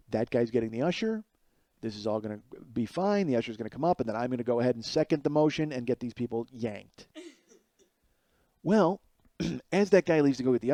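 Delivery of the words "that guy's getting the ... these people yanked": quiet inner thoughts, hushed and smug. Retold or imitated. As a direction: think it to yourself, barely aloud. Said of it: "in my head I go".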